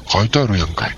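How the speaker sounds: lightly played Osaka-dialect complaint at the counter; mock Osaka retort, pointing at the writing. Postal clerk voicing a customer's Osaka-dialect comeback. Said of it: "思いっきり大阪弁になりましたけどね".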